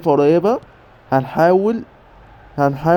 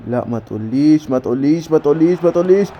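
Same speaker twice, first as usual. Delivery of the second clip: mounting disbelief. Real, not acted. Gamer watching a dangerous attack, mounting disbelief. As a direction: build tension with each repeat, rising in pitch. Tense save in the game.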